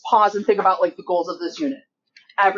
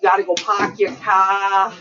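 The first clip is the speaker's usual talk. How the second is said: mock English accent; slower than usual. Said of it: "Love it if I do it in an English accent".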